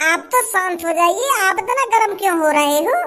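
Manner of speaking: put-on calming older man.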